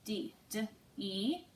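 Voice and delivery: "D, D, E" as the syllable, then each separate sound; teacher sounding out "D, D, E" piece by piece. Shown as a demonstration. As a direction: break "D" into its consonant and a long "E". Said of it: "Let's look at the word first".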